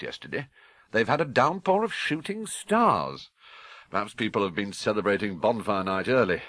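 jovial, brisk TV weatherman. Acted. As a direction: joke with the viewers. Weatherman's jokey forecast.

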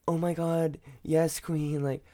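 hammed-up gushing over a friend's photo; mock adoration. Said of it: "it's like".

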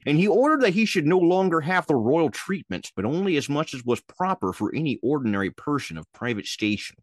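a hint of a Ted Nugent read. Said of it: "I'm Ted Nugent".

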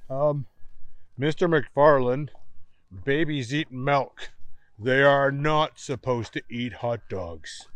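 slow, measured adult voice; patient explaining. Acted. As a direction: spell it out patiently.

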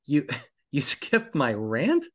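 laughing disbelief. Retold or imitated. Attorney admits skipping the rant.

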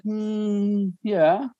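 a hum rising into a reluctant yeah; lightly voiced wife who means no; imitating wife's reluctant yes. Wife answering about the movies, a mock hesitant yeah. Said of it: "She said".

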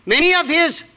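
many of his, asked up high; "Many" lifted into a question to the crowd; questioning rise. Shown as a demonstration. Preacher quizzing the congregation, rising tone. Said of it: "who's he talking to now?".

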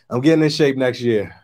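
usual speaking voice

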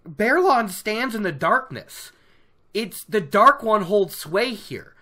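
lightly voiced zealot's denunciation; slightly hammed-up, emphatic condemnation; Bornhald. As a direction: proclaim it like a mock righteous accuser. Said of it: "And Bornhald's like".

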